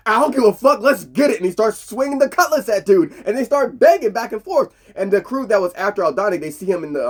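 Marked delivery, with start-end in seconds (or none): 0.1-1.4 louder, higher fired-up yell; fearless hype. Retold or imitated. Pirate meeting an alien, loud fearless yell. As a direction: hype yourself into the fight. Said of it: "his first instinct is".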